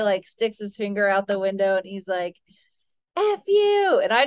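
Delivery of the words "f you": high-pitched retold insult; mock driver's yell. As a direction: toss it out like a jeer from a car window. Retold rude driver out window.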